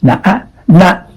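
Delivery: na, na rising; na, uh, na, going up; stress going up. Shown as a demonstration. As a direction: rise on the second na. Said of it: "Going up".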